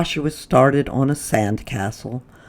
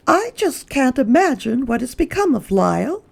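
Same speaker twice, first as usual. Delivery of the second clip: exclaim; 11 semitones higher than usual. Acted. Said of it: "he heard her exclaim".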